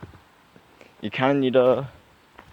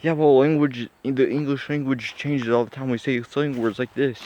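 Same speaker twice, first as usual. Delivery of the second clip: mock defensive; 4 semitones higher than usual. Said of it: "that defense of".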